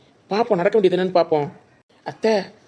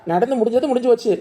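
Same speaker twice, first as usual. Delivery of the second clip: louder, cutting in on the grandmother; firm raised voice; 6 dB louder than usual. Acted. Grandson cutting off grandmother's scolding, firm and louder. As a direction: raise the voice to stop her rant.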